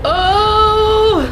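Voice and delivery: long, high "oh"; drawn-out, high-pitched reaction; pained shock. Real, not acted. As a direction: cry out in dismay. Moved by the backstory scene.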